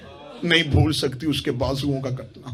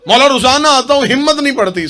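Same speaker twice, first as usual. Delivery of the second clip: louder, higher pleading lament; sobbing plea, imitated; 8 semitones higher, 7 dB louder than usual. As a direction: raise the voice in an acted, grieving plea. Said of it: "सिसकियों वाली आवाज आई".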